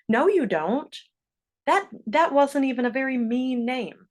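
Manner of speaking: mock arguing back against someone's feelings; dismissive denial. Other child disputing a hurt friend's feelings, mock dismissive.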